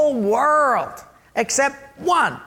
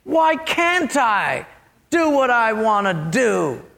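acted protest, stretching out the complaint; indignant Eve; slower than usual. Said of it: "and she said".

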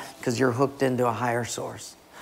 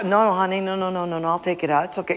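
placating; 3 semitones higher, much faster than usual. Acted. Wife backing down in acted quarrel.

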